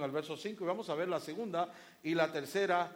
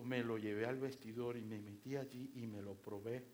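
flirtatious wife showing off; coy wife; 6 semitones lower than usual. Retold or imitated. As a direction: gush about the dress like a flirty wife. Wife gushing about the dress.

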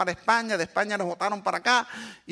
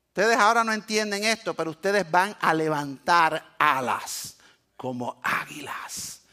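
God speaking; 4 semitones lower, slower than usual. Retold or imitated. God speaking to his people.

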